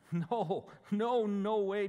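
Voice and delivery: loud, emphatic denial, pitch climbing; emphatic protest. A narrator's reading. Scene: Peter protesting to Jesus, loud and emphatic. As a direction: Peter insists he would never leave. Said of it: "Peter declares emphatically".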